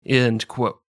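"End quote" with a light mock accent. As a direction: close the quote slightly in character. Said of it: "Very accurate dialect there".

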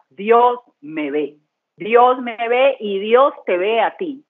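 lento y tierno; dígalo despacio como una verdad íntima; íntimo. Real, not acted. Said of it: "esa frase ... se me viene". (Dios me ve, pausado y tierno)

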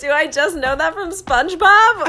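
high, loud laugh into the question. Real, not acted. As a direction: ask it while laughing. Laughing while asking.

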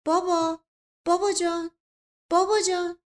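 acted wailing appeal in short bursts; crying daughter. A narrator's reading. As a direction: cry out for father in distress. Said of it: "یکباره زیر گریه زد".

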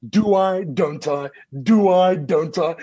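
loud, seesawing self-debate; mock dithering. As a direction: swing loudly between the two choices. Acting out his inner dithering.

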